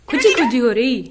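loud affectionate pet talk. Real, not acted. Cooing to parrot, louder repeat.

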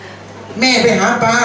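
very slow, drawn-out taunt; sibling taunting about where mother found him; slow tease. Retold or imitated. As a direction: stretch each word to needle him. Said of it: "อีกคนหนึ่งก็บอก".

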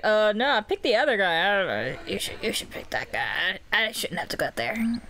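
low-pitched, hesitant mock refusal; imitated reluctant character. Player voicing Salim dodging selection, reluctant low voice. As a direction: play him passing the job to someone else. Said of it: "and he's like".

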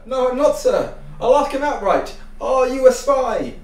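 worked-up loud accusation; agitated. Acted. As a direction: press hard, almost shouting.

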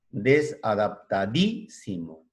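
drawing out desadaptadísimo syllable by syllable; slow spelled-out word. Shown as a demonstration. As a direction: say desadaptadísimo slowly to dictate. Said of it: "la palabra que decía". (pronunciando despacio desadaptadísimo)

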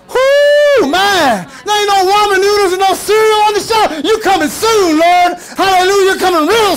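preacher shouting for joy; excited whoop. Real, not acted. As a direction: whoop it up for the Lord. Preacher celebrates the Lord's coming.

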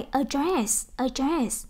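"address" stressed on its second syllable. Shown as a demonstration. Teacher modelling a verb for repeat-after-me, stress on second syllable of "address". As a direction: say "address" with the weight on -DRESS. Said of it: "động từ nhấn âm hai".

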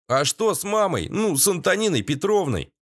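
worried son-in-law asking; Valera asking. A narrator's reading. Valera asks anxiously.

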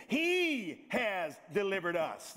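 slow, weighty stress on He; slow emphasis. Shown as a demonstration. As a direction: lean on each word of He has delivered us slowly. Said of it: "Do you see that?".

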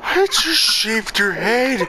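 drawn-out gloating taunt; slow taunt. Real, not acted. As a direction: savor each word slowly.

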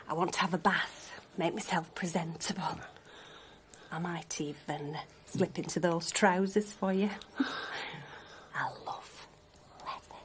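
flirty murmur. Acted. Flirting with partner about trousers.

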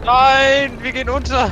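high, loud alarmed cry; panicked. Real, not acted. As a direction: cry out as the ship sinks. Ship sinking.

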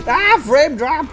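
high, loud, drawn-out outcry; exasperated yell. Real, not acted. Gamer hit by a frame drop, exasperated yell. Reacting to game lag.

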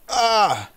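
loud, high cry of alarm; startled yell. Real, not acted. Startled in the game.

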